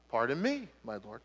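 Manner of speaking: soft, low, shrinking reply; timid Gideon. Acted. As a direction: shrink back as you answer. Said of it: "Gideon replied".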